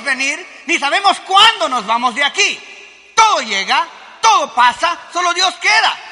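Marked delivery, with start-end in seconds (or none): 3.1-6.0 preaching shout. Real, not acted. Preacher's climax line.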